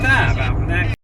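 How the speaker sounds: high, loud shout. Real, not acted. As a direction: call it out loud. Shouted reaction.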